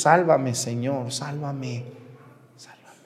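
a plea that fades to almost nothing; mock cry for help, dwindling to a breath; fading plea. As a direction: let the begging die away as he sinks. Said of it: "le grita a Jesús".

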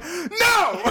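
high laughing cry of no; retold no. Retelling the comeback to friends, a high mock wail. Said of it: "And I'm like".

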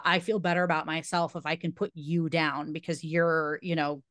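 rushed, breezy self-justifying tone; smug mock townsperson. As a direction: rattle it off like a smug hypocrite. Voicing smug townspeople's logic.

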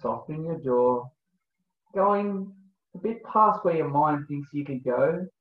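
slow, calm breathwork guide voice; guided meditation. Acted. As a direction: lead the breathing gently, unhurried.

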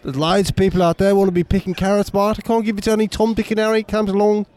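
put-on Australian accent. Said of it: "My Australian guy's".

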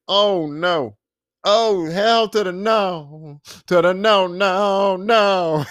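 drawn-out, mock-outraged no; emphatic refusal. Viewer reacting to the bathroom grab, emphatically refusing. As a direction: stretch each no in flat refusal.

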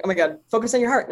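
quick, mildly frantic self-coaching; maniacal self-talk. Retold or imitated. Meditator urging herself to focus, mildly maniacal. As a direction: urge yourself on, a bit manic. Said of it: "I was kinda going maniacal".

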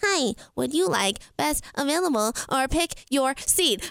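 mimicking an automated phone lady; evenly spaced words like a phone menu; lightly voiced robot operator. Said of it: "mimic this robot voice".

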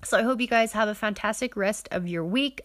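talking through a nasally voice; nasal voice, like a stuffy nose. Real, not acted. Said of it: "my nasally voice".

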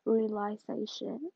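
"realization" sounded out slowly, syllable by syllable; careful retry. Real, not acted. Podcaster recovering from a fumbled word, careful retry. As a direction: say "realization" slowly and fully to get it out. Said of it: "I can't even talk".

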